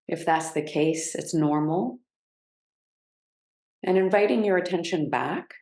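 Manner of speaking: unhurried guiding voice with long pauses; measured meditation cues, settling on each phrase; guided grounding practice. Real, not acted.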